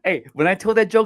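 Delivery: ordinary talk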